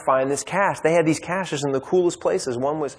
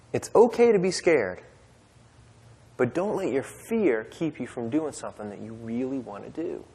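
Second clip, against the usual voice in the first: gentle reassurance; 3 dB quieter than usual. Real, not acted.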